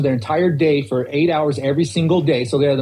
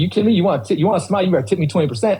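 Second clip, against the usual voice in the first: sassy; 4 semitones higher, faster than usual. Retold or imitated. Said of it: "they'd just get sassy".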